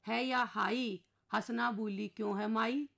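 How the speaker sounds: poem recitation. Acted. Children asking papa why mummy is sad, slow verse.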